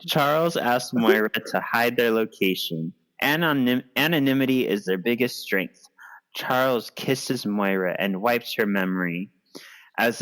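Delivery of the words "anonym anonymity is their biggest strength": a secretive whisper. Acted. Charles telling Moira to hide them, secretive whisper. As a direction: breathe it like a secret.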